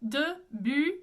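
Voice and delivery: Debu with rounded front u; French U. Shown as a demonstration. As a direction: say Debu with E in the mouth, U with the lips. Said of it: "E in the mouth, U with the lips".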